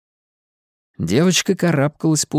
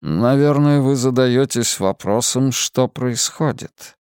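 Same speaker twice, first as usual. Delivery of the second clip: mysterious man; slower than usual. Acted. Lazarus speaks slowly.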